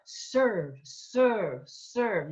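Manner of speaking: serve with a flipped R, no hard er. Shown as a demonstration. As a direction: flip the R in serve. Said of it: "you flip the R".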